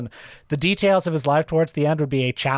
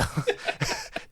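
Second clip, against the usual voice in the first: breathy laugh; 8 dB quieter than usual. Shown as a demonstration. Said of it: "give us a taste of your old man voice".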